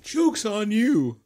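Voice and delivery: high, slow, gloating; slow smug taunt. Real, not acted. The player mocks the beaten monocle, slow and smug. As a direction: drag it out triumphantly.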